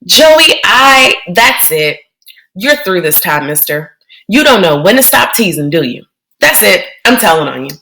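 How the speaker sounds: put-on frantic kid-sister threat; lightly voiced, worked-up girl; upset little sister. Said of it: "she sounded real crazy".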